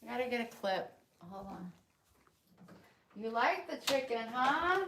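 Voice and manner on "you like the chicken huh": rising cooing question; sing-song pet talk. Real, not acted. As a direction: coo at the pet. Talking to the pet.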